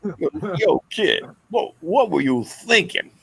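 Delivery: mobster voice. Retold or imitated. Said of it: "a cross between Rodney Dangerfield and The Godfather".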